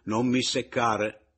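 a slow, loud snap; shout. A narrator's reading. Mattia, fed up, shouting at Pomino. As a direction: cut him off loudly. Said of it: "gli gridai".

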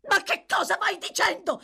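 startled shouted question; involuntary cry. A narrator's reading. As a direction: blurt it out before she can stop. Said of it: "gridò la ragazza involontariamente".

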